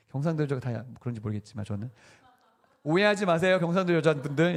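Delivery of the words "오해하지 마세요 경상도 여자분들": playful apology. Real, not acted. Joking apology to audience.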